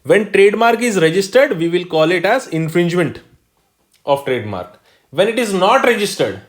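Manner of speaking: slow, deliberate definition read-out; dictating a definition to the class; slow dictation. Shown as a demonstration. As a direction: lay the rule out word by word. Teacher dictating definition slowly.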